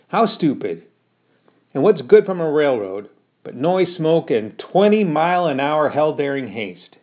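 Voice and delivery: put-on fed-up mother berating her boy; cross scolding mother. Ma scolds son.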